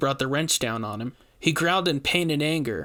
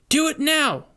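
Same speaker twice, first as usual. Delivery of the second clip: loud demand; 13 semitones higher, 5 dB louder than usual. A narrator's reading. Rainey demands again.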